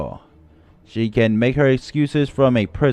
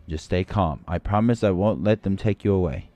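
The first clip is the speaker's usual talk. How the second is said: ordinary delivery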